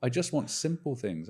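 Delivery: exasperated plea. Retold or imitated. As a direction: beg the chatbot, tired and fed up. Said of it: "I'm like".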